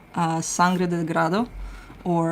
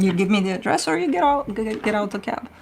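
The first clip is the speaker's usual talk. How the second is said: higher, fast, firm demand; angry order; 3 semitones higher, faster than usual. Retold or imitated. Cab driver ordering a circling passenger out, angrily. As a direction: snap the ultimatum at him.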